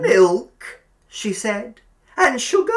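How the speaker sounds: put-on high, loud, sugary old landlady; sweet landlady. A narrator's reading. Landlady serving Billy tea, high sugary coo. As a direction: coo the offer of milk.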